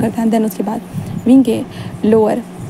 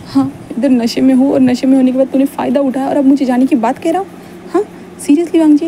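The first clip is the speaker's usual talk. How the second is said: indignant protest; 3 semitones higher than usual. Acted. Wing protests being sent away.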